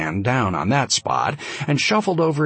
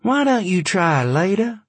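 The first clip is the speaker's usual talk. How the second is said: higher pointed challenge; challenging; 9 semitones higher than usual. A narrator's reading. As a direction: throw it down as a challenge.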